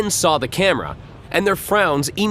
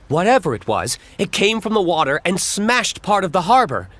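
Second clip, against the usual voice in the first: smiling; 4 semitones higher than usual. Acted. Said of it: "Gale said with a smile".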